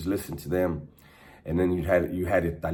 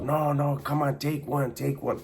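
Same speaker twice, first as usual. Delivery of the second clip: mock Italian accent, pitched well higher; thick Italian accent; 7 semitones higher than usual. Angelo insisting the homies take a cigarette, high mock Italian accent. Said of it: "But with really thick accent".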